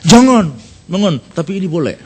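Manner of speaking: half-laughing token no that means yes; mock polite refusal, laughing at the end; coy Indonesian refusal. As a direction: refuse politely while hinting yes, with a chuckle. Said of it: "Kalau orang Indonesia kan gimana kayaknya?".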